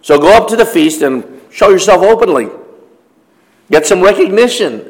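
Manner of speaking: mildly mocking brothers, taunting Jesus; a light sneer, egging him on to show himself; sarcastic. Brothers taunting Jesus to go to the feast, lightly sarcastic. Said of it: "you can see the sarcasm in their voice".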